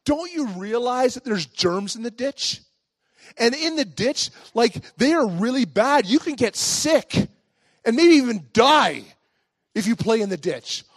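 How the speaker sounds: high-pitched mock scolding; mad grandma. Grandma warns the boy about germs, mock-stern scolding. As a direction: lecture a child with emphatic warnings. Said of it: "she's mad".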